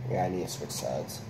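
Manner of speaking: talking with dip in lip; chewing tobacco. Real, not acted. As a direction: speak around a lip of dip. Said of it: "I'm gonna do some Copenhagen mint".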